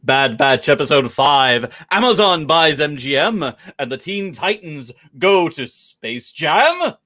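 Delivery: punchy headline announcer read; show teaser read. Acted. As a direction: sell the episode like a TV promo. Podcast opening headline read.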